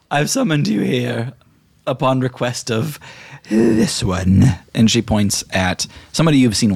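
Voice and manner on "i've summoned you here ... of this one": Priscilla Adamantium. Acted. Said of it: "she says".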